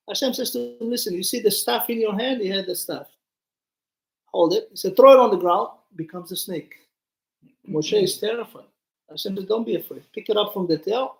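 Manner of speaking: ordinary talk, nothing marked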